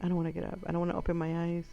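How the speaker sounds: whispered, then hushed and quick. Retold or imitated. Boy lying still on the floor, whispering to himself. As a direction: whisper it like playing dead on the floor. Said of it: "And I'm like".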